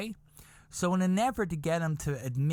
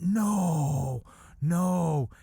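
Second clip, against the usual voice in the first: louder, drawn-out mock-astonished no; acted disbelief; 3 semitones higher, 4 dB louder than usual. Bus passenger hears the general's gossip, mock astonished. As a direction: react as if hearing scandalous gossip.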